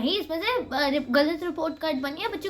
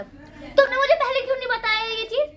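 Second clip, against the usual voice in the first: imitated teacher complaint; 4 semitones higher than usual. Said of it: "तो उसने ऐसे बोला".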